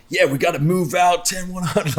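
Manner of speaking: high, urgent imitation of a woman barking squad commands; wife playing Navy SEAL. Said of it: "doing all the Navy seal calls as my wife".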